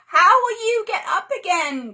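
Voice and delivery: put-on girl crying out, worried; Annika crying out. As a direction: cry out in alarm. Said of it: "cried Annika".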